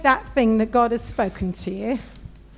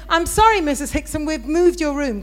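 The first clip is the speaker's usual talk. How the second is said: higher-pitched, imitated front-desk apology; apologetic hotel receptionist; 3 semitones higher than usual. Receptionist telling a guest of a room change, emphatically apologetic. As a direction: play the clerk breaking news to a guest. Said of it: "And that's how he said it".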